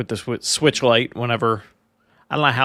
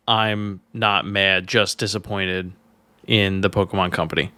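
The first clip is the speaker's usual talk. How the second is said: mock calm disappointment; 4 semitones lower than usual. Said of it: "I think that you are mad".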